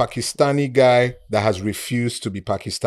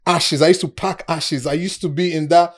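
high, loud mock shouting; retold shouting; 8 semitones higher, 8 dB louder than usual. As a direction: imitate an old friend shouting over you. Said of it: "And he's shouting".

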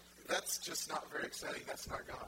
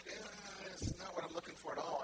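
unimpressed; 2 semitones higher than usual. Retold or imitated. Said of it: "I'm like".

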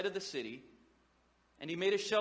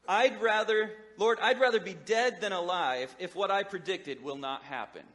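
whiny outburst; 4 dB louder than usual. Acted. Jonah's complaint re-voiced.

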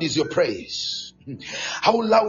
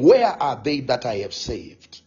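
lightly voiced divine questioning, pitched low; God's solemn question; 6 semitones lower than usual. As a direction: ask it low, as God addressing the saved. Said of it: "God is saying".

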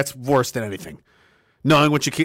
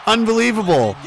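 excited shout; 4 semitones higher than usual. Real, not acted. Shouting at the comeback.

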